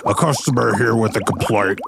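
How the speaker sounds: a lightly put-on eager servant; eager little helper reporting in; slime servant voice. Goggles reports to his boss, lightly voiced. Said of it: "can you do that again".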